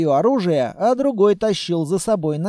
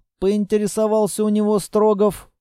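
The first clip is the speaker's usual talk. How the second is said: plain reading voice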